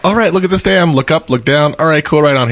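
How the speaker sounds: high-pitched, breezy tourist checklist; mock sightseer enthusiasm. Tourist jumping out at Hoover Dam, mock enthusiasm. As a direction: imitate a tourist ticking off the sights.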